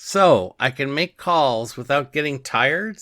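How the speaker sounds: loud eager question; eagerly ask, voice up; excited. Retold or imitated.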